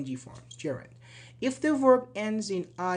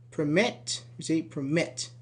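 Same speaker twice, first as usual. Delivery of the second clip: "Permit" stressed on the final MIT; "Permit" with the weight on its last syllable; stress on second syllable. Shown as a demonstration. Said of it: "Mit is stressed".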